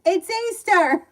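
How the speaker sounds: high, drawn-out mock holler; imitated mom's yell. Mom to fighting kids on a holiday, imitated yelling. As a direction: yell it slow and loud, imitating a fed-up mother. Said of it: "she would yell".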